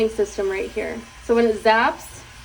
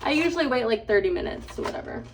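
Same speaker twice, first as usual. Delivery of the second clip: talking with whitening strips in. Real, not acted. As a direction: mouth full of whitening strips. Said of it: "I still have the whitening strips in".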